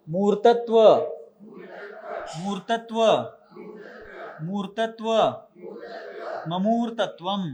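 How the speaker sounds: धीमा पाठ; call and response recitation. Shown as a demonstration. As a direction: recite each term with long pauses for repetition. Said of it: "मैं एक एक शब्द बोलूंगा".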